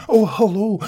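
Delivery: high, bright-eyed cheery greeting with a rising end; beaming little man. A narrator's reading. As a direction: greet him gaily, voice up high. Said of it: "beamed the little man gaily".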